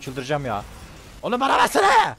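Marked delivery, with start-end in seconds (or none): 1.2-2.2 whiny pleading. Real, not acted. Begging teammate loudly.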